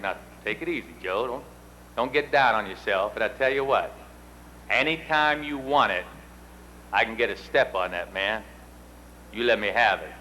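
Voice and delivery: calm him down gently; reassuring. Retold or imitated. Teammate consoling him on bench.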